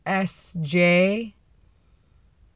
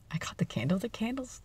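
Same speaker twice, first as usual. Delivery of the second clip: hushed, half-whispered confession; confiding aside; 5 semitones higher, 11 dB quieter than usual. Real, not acted. Telling viewers a secret about the wrapped candle, confiding softly. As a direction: softly let slip a secret.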